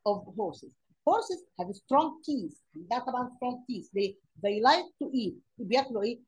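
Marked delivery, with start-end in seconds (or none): 1.1-2.6 slow dictation. Shown as a demonstration. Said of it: "teacher reading example sentence". 4.1-5.3 slow dictation. Shown as a demonstration. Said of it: "teacher reading example sentence".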